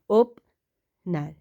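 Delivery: ओपनर stretched slowly while writing; slow drawn-out dictation. Shown as a demonstration. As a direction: draw out ओपनर as you trace it.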